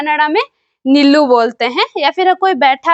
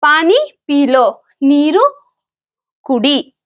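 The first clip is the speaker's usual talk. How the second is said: slow demo; slower than usual. Shown as a demonstration. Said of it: "तो".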